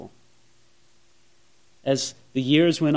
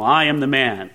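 lower, dignified self-announcement; very noble; 4 semitones lower than usual. Shown as a demonstration. Samuel presenting himself to Saul, very nobly. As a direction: say it low with grand composure. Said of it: "you know, very nobly".

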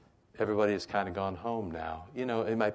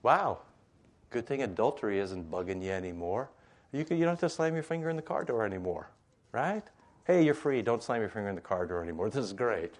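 joyful, freeing. Retold or imitated. Jesus gladly telling the woman she is free. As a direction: cheer her on, you're free. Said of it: "more like this".

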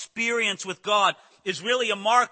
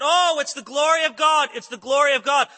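higher, louder mock cry of "Oh, it's the glory of God"; mock excited cry; 5 semitones higher, 5 dB louder than usual. Preacher mocks worshippers calling out over silliness, louder and higher. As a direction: ham up an overexcited worshipper. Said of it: "people cry out".

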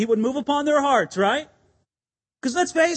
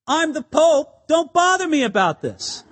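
mock pompous Pope; 4 semitones higher, 3 dB louder than usual. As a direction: brush them off like a self-important boss, tongue in cheek. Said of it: "No, he didn't say that".

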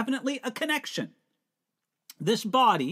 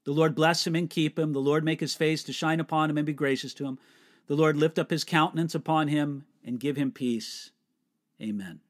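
hushed graveside prayer; 4 semitones lower than usual. Shown as a demonstration. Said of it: "to be spoken at a graveside".

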